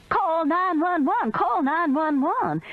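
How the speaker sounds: high, slowed panicked cry; frantic screaming. A narrator's reading. Meemaw on the floor screams for help. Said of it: "Meemaw's scream changed to".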